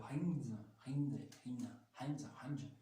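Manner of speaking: English word in a clumsy French accent; bad English accent. Real, not acted. French toy reviewer stumbling over an English brand name, heavy French accent. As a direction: fumble at English "rings" with French sounds. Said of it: "je m'excuse pour l'accent".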